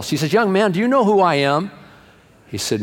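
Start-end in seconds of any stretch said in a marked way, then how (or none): 0.3-1.7 indignant mother. Acted. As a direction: play an affronted lady challenging the usher. Pastor's mother pulls rank on usher.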